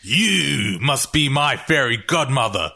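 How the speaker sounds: taunting. Acted. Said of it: "I point it right at him and go".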